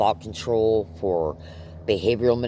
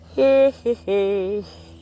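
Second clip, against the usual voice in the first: weary laugh; 14 semitones higher, 7 dB louder than usual. Real, not acted. Exhausted aside to viewers.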